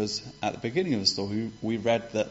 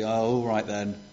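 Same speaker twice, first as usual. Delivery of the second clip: grudging, reluctant sigh of a welcome; a father pretending to be put out; begrudging; 3 semitones lower than usual. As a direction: let him in as if it's a chore. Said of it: "sort of begrudgingly and say".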